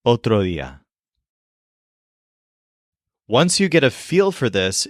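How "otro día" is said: "Otro día" with the D not fully pronounced; loose, half-made D in "Otro día"; lazy D. Shown as a demonstration. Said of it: "as kind of a lazy D".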